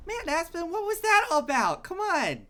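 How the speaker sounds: high, put-on captain voice, whining; annoyed captain. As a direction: complain like a flustered captain. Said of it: "and is like".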